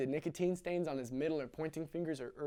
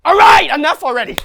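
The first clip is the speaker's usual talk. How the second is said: much higher, much louder shout; furious yell; 11 semitones higher, 23 dB louder than usual. Acted. Father exploding at his crying son, yelling. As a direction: explode at the kid. Father snaps before punching.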